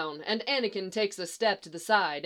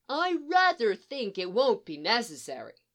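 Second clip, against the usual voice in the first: exaggerated mock-proper imitation, higher pitched; Obi-Wan; 4 semitones higher, 3 dB louder than usual. Han mocks his guardian's phrase, exaggerated imitation. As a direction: mimic with overdone emphasis on "rather". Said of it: "in an exaggerated imitation of Obi-Wan's voice".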